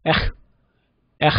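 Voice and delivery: 에흐 with a throaty r scraped at the back; French r. Shown as a demonstration. Teacher imitating the French r found online. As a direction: rasp the 흐 far back in the throat. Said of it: "R 발음이 이렇게 나오더라고요".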